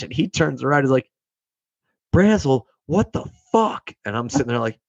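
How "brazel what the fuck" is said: high, slow mock yell of an angry officer. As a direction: bark it like a furious superior, hammed up. Angry officer yelling at sailor.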